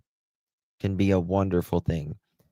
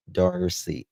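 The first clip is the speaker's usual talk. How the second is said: southern accent; 2 semitones lower than usual. Real, not acted. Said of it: "that's my southern accent".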